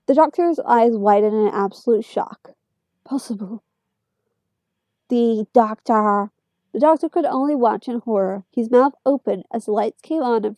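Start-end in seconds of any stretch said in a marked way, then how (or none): 3.0-3.6 raspy metallic voice. Acted. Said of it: "a raspy metallic voice echoing". 5.1-6.3 raspy metallic voice. Acted. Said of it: "a raspy metallic voice echoing".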